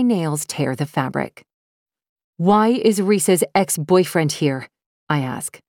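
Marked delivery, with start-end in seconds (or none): 2.4-4.7 angry. Acted. Furious confrontation with boss.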